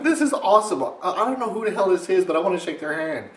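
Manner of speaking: high loud delighted praise; amused excitement. Retold or imitated. Pretending to enjoy the gnome blog, high loud delight. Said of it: "I'm laughing the whole time".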